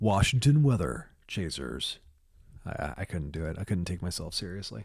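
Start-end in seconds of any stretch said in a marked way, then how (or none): 0.0-2.0 exaggerated, extra intense, loud, swooping delivery. Trying out a voice for weather updates: extra intense voice. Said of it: "with a voice like this? Extra intense?".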